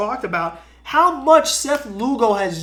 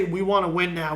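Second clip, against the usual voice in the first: lowered voice, parroting a GM's promise; mock Brody boasting; 5 semitones lower than usual. A fan mimics Brody promising to win now, low mock boast. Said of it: "Why would Brody say".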